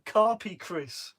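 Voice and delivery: Carpy Chris drawn out slowly, each word spelled out; slow deliberate correction of a misread name; slow careful reread. Shown as a demonstration. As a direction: say it again slowly to get it right. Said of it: "Sorry, Chris".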